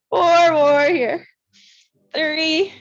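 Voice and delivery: loud count. Real, not acted. Instructor counting down reps.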